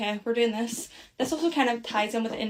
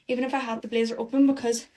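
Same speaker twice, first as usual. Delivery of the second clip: out of breath; faster than usual. Real, not acted. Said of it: "I am running out of breath".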